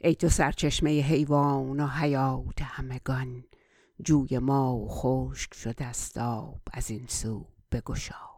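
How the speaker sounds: flowing Persian verse recitation; poem recitation. Acted. Recites Persian verse before translating.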